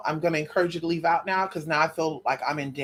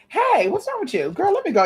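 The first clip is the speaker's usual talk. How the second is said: startled call; 11 semitones higher than usual. Real, not acted. Dog acting up, high voice.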